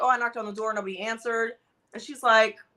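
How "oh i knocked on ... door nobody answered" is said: normal talking voice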